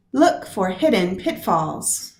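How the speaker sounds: "Look", "hid" and "pit" stressed in turn; trochaic scan. Shown as a demonstration. Teacher reading the whole line in its trochees. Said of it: "This stressed followed by the unstressed".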